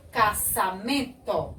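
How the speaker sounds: "caçamento" syllable by syllable, hissed s; som de dois S. Shown as a demonstration. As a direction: say "caçamento" as ca-ssa-men-to. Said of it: "Se eu colocar dois S". ("caçamento" com som de S)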